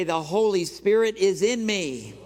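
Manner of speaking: preacher's loud affirmation for the congregation to echo; loud declaration. Shown as a demonstration. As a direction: call it out loud and strong.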